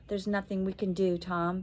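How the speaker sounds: soft, breaking voice. Acted. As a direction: hold back tears as you speak. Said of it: "her voice breaking".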